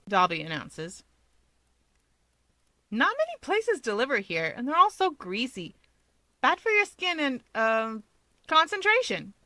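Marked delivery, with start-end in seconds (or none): 2.9-9.3 lying through teeth. A narrator's reading. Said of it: "Hawks counters, lying through his teeth".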